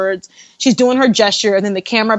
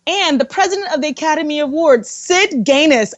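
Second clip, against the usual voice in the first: raised, brisk announcer voice; awards announcer; 5 semitones higher than usual. Retold or imitated. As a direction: imitate a TV host announcing a big name. Imitating the televised awards announcement.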